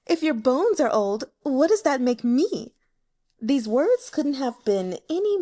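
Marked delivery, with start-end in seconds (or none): 0.1-2.7 louder, higher coy teasing; a courtesan fawning over an old client; flirtatious courtesan. Acted. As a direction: flatter him with false modesty.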